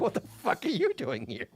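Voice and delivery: quoted line broken by laughter; retelling the coworker's outburst while laughing; laughing through it. Retold or imitated. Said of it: "she's like".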